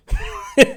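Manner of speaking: short high-pitched laugh; real little laugh. Real, not acted. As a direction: let a brief, high laugh slip out. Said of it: "I'm laughing".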